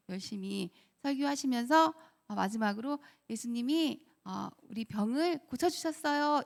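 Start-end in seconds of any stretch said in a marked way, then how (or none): 3.3-6.4 retold cheerful announcement. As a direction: lightly imitate a cheery children's preacher. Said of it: "이렇게 신나게 딱 얘기했는데".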